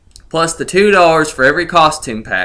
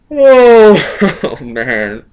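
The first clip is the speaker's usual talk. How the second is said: laughing fit; 4 dB louder, much slower than usual. Real, not acted. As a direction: lose it completely. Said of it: "I can't hold it in".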